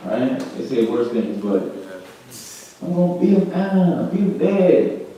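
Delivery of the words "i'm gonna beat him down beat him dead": mock angry threat. Voicing a jealous person's threat.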